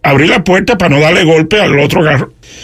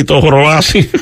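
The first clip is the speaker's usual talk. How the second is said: joking, laughing. Retold or imitated. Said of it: "para ver si la hago reír".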